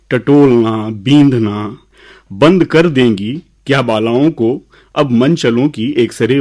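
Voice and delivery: measured, lilting recital with pauses; poem recitation. Acted. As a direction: recite verse to an audience, leaning on key words. Recites his own poem.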